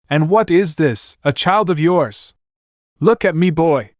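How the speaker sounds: lightly voiced mocking old lord; laughing lord voice. Narrator voices Lord Karstark.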